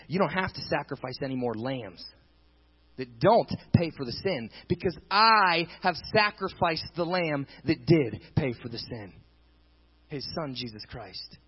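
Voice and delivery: lightly voiced solemn God. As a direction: speak as God ending the sacrifices. Preacher voicing God.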